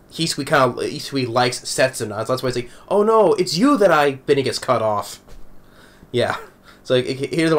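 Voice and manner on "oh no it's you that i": higher, imitated blurting, cut short; flustered confession. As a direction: blurt it out in a raised acted voice. Acts Hisui's interrupted confession.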